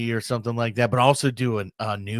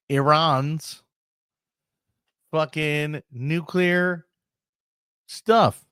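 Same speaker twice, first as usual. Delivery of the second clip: gleeful, teasing higher voice; smug official voice; 3 semitones higher than usual. Retold or imitated. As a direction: brag like a sly government spokesman. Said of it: "they're like".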